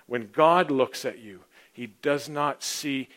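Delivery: slow, measured proclamation with pauses; slow emphatic preaching. Real, not acted. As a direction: preach it slowly, weighting each phrase. Preaches slowly and solemnly.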